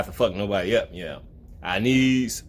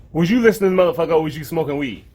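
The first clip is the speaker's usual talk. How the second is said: loud teasing jab at listeners; playful loud taunt; mock scolding; 6 semitones higher, 4 dB louder, faster than usual. Real, not acted. Mocking viewers loudly.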